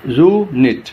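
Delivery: "यूनिट" with only a short break between syllables. Shown as a demonstration. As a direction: say "यूनिट" in two parts, closer together. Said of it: "two parts में divide कर देते हैं".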